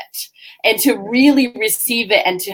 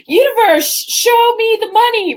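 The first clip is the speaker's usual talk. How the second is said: mock declaring; 10 semitones higher than usual. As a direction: demand it from the universe grandly. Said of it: "he's like".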